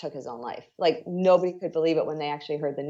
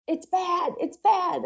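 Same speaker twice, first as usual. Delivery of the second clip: much higher, shaken voice of her father repeating it; a father too stunned to say more; dad's distraught voice; 12 semitones higher, slower than usual. Retold or imitated. Dad calls with terrible news.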